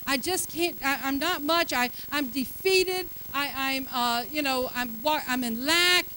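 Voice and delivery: a hint of a mopey, defeated voice; mock defeated talk. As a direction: play the beaten-down believer. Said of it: "walking around saying".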